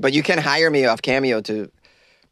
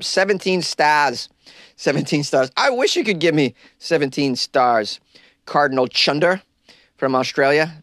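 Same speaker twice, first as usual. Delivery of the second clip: hammed-up Aussie accent, raised pitch; Australian accent; 4 semitones higher than usual. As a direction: read the review like a cheery Aussie. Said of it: "I have a terrible Australian accent but I try".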